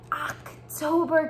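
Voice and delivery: "October" said slowly, syllable by syllable; teacher modeling "October" slowly; model word. Shown as a demonstration. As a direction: say "October" slowly for kids to copy. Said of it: "Can you say October?".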